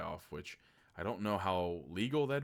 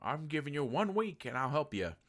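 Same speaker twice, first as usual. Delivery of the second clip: movie line; 6 semitones higher than usual. Retold or imitated. Movie quote opening the video.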